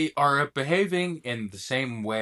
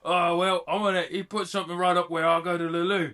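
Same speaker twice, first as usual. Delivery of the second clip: rough British bloke; trashy British accent. Acted. British bloke recounting the probing, rough British accent. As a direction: grumble on in lowbrow British. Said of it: "you got a little Tom Hardy".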